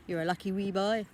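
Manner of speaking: lightly imitated Irish accent; quoting someone in an Irish accent; thick Irish accent. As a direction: put on a touch of Irish lilt. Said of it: "in that thick Irish accent".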